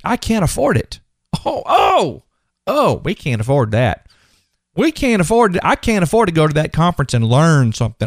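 hammed-up helpless complaint; playing the victim. Preacher mimicking people who give up, in a victim's whine. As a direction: moan like a mock poor-me victim. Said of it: "Victim, victim, victim".

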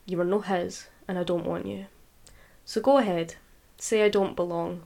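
measured, deliberate poetry recital; defiant spoken-word poem; poem reading. Acted. Reads her poem aloud.

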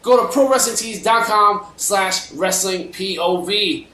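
upbeat sponsor ad read; infomercial. Acted. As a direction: sell the t-shirts like an ad.

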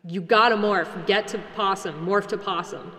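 insistent urging, first words loud; urgent thought-speak. Acted. Player sends thoughts into Grant's head, insistent. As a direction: press it into his head, mildly urgent. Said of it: "try and reverberate around Grant's head saying".

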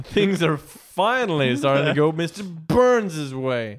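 hammed-up villain. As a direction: savour the villain's triumph with mock drama. Hammed-up repeat of villain's line.

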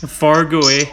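put-on playfully echoed Minnesotan accent. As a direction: mimic a Fargo-style Minnesotan accent lightly. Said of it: "Minnesotan accent".

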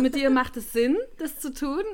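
laughing through the words. Real, not acted. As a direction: talk while giggling. Teasing guest, laughter heard.

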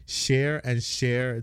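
"share and share" with both words starting sh; merged SH and CH. Shown as a demonstration. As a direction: say chair just like "share". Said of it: "I mix up my S H and C Hs".

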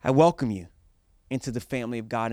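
loud rallying call to the crowd; rally speech. Acted. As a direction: whip the crowd into cheering. Rallying congregation to cheer.

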